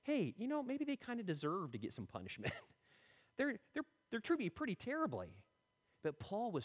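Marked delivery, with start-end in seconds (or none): 0.0-5.3 mock resentful grumble. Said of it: "I might feel like".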